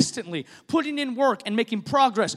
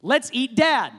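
flat, reluctant delivery; grudging tone. Shown as a demonstration. Preacher showing a reluctant tone with the same words. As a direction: say it like you'd rather not. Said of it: "same words with different tones".

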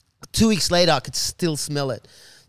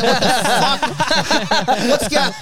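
shocked outburst; 8 semitones higher, 6 dB louder, much slower than usual. Retold or imitated. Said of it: "I'm like".

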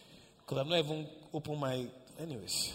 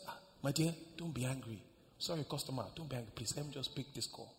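apologetic shopkeeper; 2 semitones lower, 6 dB quieter, faster than usual. Acted. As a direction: excuse yourself gently to take a call. Shopkeeper apologising to waiting customer.

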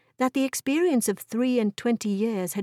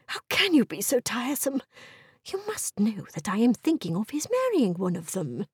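exasperated wife; 2 semitones higher than usual. Acted. Wife voiced in story.

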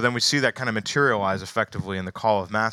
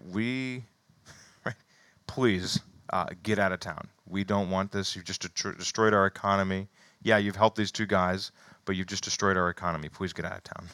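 mock townsfolk; 2 semitones lower, 3 dB quieter than usual. Imitating townspeople dismissing Jesus.

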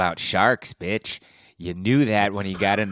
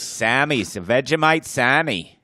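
mock Australian; 3 semitones higher than usual. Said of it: "how would you say sandwich in Australian".

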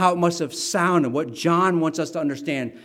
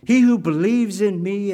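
raised, proclaiming pitch, building in force; crying out; 3 semitones higher, 3 dB louder than usual. Retold or imitated. Jesus stands before the crowd on the last day, crying out. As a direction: call it out as a retold public cry. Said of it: "he stands and he cries out".

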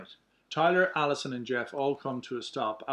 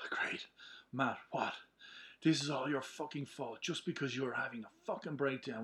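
out of breath. Acted. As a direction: gasp between words after a sprint. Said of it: "I'm doing the breath 'cause you're running".

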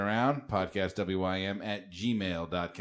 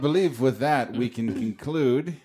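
carnival barker; 4 semitones higher, 5 dB louder than usual. Acted. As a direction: announce it like a 1910s barker. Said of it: "My nineteen teens Carnival Barker voice".

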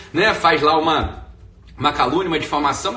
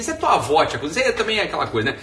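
ordinary delivery

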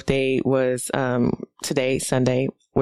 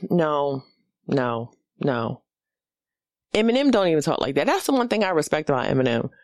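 usual speaking voice

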